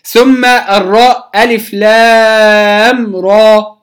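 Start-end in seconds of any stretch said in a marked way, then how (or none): 1.4-3.8 را ends open on a long ā, said very slowly; correct Rā. Shown as a demonstration. Quran teacher modeling the opening letters, slow and drawn. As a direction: hold the ā of را with no hamza or h. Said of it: "لا أقول".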